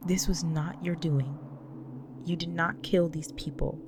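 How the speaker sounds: firm, emphatic reassurance; insistent comfort, leaning on key words; earnest insistence. Acted. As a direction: press each point to lift their guilt. Insists partner is not to blame.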